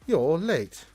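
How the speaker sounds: high, loud, grand wizard voice; Gandalf impression. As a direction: boom it out like an old wizard. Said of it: "he said".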